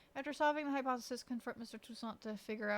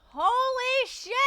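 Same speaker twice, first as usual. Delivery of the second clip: high, loud, drawn-out cry of shock; loud stunned outburst; startled shout; 12 semitones higher, 13 dB louder, much slower than usual. Real, not acted. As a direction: yell it slowly, pitch leaping up. Startled by a game scare.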